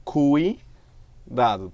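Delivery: "Cuidado." very slowly, the cui glide drawn out; slow syllable demo. Shown as a demonstration. Teacher demonstrating a falling diphthong slowly. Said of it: "Também de tom decrescente".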